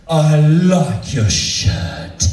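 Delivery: very slow, drawn-out come-on; slow drunken purr. Retold or imitated. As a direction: stretch each word like a tipsy flirt.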